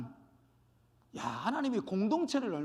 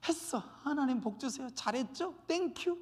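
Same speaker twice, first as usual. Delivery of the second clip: self-satisfied believer; 3 semitones higher, 4 dB quieter than usual. Acted. Acting self-satisfied solitary believer.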